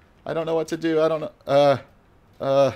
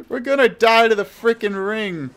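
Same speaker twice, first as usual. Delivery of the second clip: laughing, louder and higher; laughing panic; 6 semitones higher, 6 dB louder than usual. Real, not acted. Player laughing at squad heading into the ring. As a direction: laugh through the alarm.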